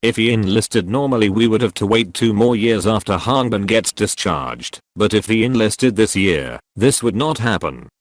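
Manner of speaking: synthetic text-to-speech voice; robot voice. Acted. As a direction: speak like a computer voice. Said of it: "I'm using this robot voice".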